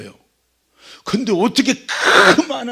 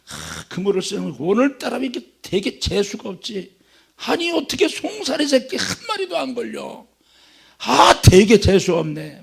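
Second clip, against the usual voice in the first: higher, irritated muttering complaint; grumbling fisherman; 3 semitones higher than usual. Acted. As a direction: grouse like a fed-up fisherman. Simon grumbling over empty nets.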